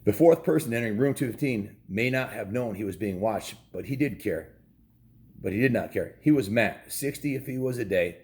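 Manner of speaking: steady storybook reading voice; story narration. A narrator's reading. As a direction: read it like a bedtime chapter. Continues reading the chapter.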